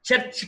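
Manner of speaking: చర్చ్ as "cherchi", e vowel and sounded r; mispronounced "cherchi"; wrong pronunciation demo. Shown as a demonstration. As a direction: say చర్చ్ with an r and an extra i at the end. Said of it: "చర్చ్ కాదు".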